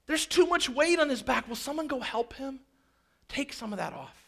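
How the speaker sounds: calling out. Acted. Jesus voiced calling for help.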